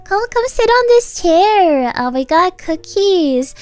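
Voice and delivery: put-on sweet talk to a toddler; coaxing a child. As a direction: imitate inviting a little kid over. Coaxing small child onto chair.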